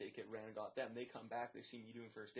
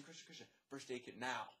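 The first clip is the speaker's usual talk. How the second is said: urgent mock call, kept at talking volume; retold yelling. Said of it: "I'm, like, yelling".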